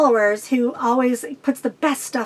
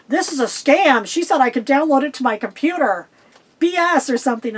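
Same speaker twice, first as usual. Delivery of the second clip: indignant complaint; 2 semitones higher than usual. Retold or imitated. Vlogger mimicking a one-star reviewer, mock indignant. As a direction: imitate a griping customer with stretched key words.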